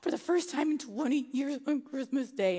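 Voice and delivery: slow, teary, close to crying; tearful. Retold or imitated. Mother telling the agent she wanted to see her mom, teary and slow. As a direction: plead through tears. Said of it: "I can feel the waterworks".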